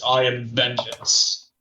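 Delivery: slow, gravelly declaration. Acted. Hero in Ghost Rider form declares vengeance, gravelly voice. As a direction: draw it out in a gravelly voice. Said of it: "in a gravelly voice".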